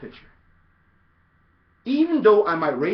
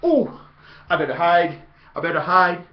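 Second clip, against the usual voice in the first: mock fear; 5 dB louder than usual. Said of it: "I'd be the duck".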